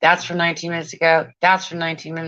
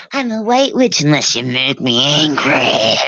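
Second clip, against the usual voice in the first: louder, whining sob-voice imitation; mock crying witch; 5 dB louder than usual. Mocking Catherine Guthrie, a whiny fake-crying voice. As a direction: whine it like a wounded witch. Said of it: "That's what you sound like".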